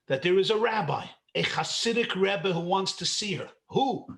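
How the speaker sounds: ordinary talk, nothing marked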